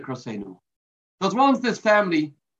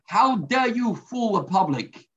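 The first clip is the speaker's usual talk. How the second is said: higher-pitched mock yell at the zookeeper; retold angry yelling; 4 semitones higher than usual. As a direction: scold him, pitch up, half-performed. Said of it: "he began yelling and screaming".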